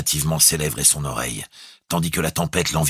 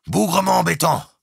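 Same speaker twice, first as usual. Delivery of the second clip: high, loud call on a held pitch; loud exclamation; 5 dB louder than usual. A narrator's reading. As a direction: exclaim it down the tube. Captain exclaims through tube. (exclamation criée)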